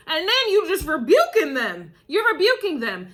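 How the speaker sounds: giggling through the words; laughing. Real, not acted. Reader laughing at people being rebuked.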